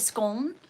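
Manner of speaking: "Scone" with a short open O, like gone; northern English scone. Shown as a demonstration. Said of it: "Northern is probably scone".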